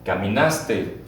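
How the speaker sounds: Caminaste said clearly, stress on na; model for repeating. Shown as a demonstration. Teacher models caminar conjugation for class, clear and measured. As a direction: Caminaste said slowly enough for students to echo. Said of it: "Repeat after me".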